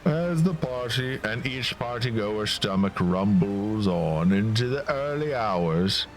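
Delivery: storybook narrator voice; story narration. A narrator's reading. Narrator recounts the night-long party to viewers. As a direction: tell it like a fairy tale.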